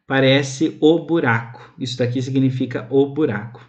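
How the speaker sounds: usual speaking voice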